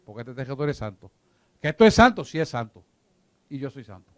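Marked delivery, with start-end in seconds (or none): 1.6-2.2 a high, loud incredulous retort; imitating an offended guest, shocked and high; mock indignant disbelief. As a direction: mimic someone scoffing at the idea. Mocking an offended visitor's reply.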